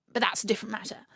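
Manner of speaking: whispered quick aside. Acted. Frog Bertie whispering an aside to the pond. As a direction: brush it off under breath.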